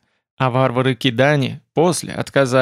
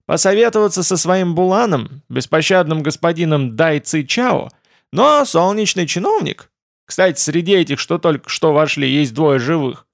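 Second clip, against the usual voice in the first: whiny dragon voice; 4 semitones higher than usual. Acted. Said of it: "как бы между делом заметил младший дракон".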